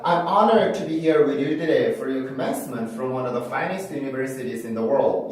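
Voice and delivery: "today" tapped, as in "you-duh-day"; flapped T in today. Shown as a demonstration. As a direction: link "you today" with a flap in place of the T. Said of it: "이렇게 발음을 해주는데".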